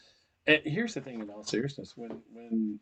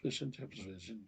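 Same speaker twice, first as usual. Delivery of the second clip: tentative fake English accent, trailing softer; mock British accent; 5 dB quieter than usual. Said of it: "I was talking their language".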